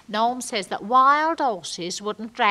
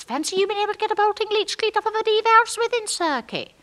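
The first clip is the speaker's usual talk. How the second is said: mock admiration; 12 semitones higher, 3 dB louder, faster than usual. Mock admiration repeating his jargon.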